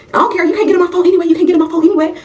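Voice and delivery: high-pitched, defensive comeback; defiant taunt. Acted. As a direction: act out a friend refusing to back down. Friend defiant in phone fight.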